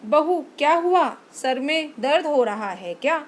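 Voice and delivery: put-on caring older woman asking gently; concerned mother-in-law. Mother-in-law asking sad daughter-in-law, concerned. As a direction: check on her kindly.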